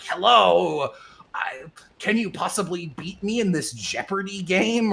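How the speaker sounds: put-on high whispered child voice; a creepy child whispering a challenge; creepy kid whisper. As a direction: whisper it like an eerie eight-year-old. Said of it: "and he's like".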